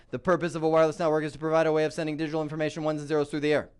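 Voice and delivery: fast, rattled-off robotic recital. Retold or imitated. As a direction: recite it fast like a programmed machine. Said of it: "Like a robot".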